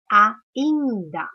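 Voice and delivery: "Ainda" loud in separate beats, a, in, da; split into syllables. Shown as a demonstration. Teacher showing pupils the division, "Ainda" broken into a, in, da. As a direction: punch each syllable of "Ainda" apart. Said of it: "Eu falo ainda".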